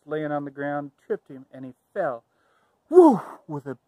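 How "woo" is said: very high, loud cry as he falls; big whoop. Acted. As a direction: let out a sudden loud whoop. Wolf falls with big huff.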